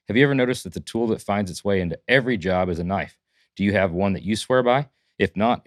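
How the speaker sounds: punchy host read with strong openings; polished, emphatic announcer delivery; sponsor ad read. Acted. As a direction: sell it like a podcast sponsor spot. Sponsor read and show intro.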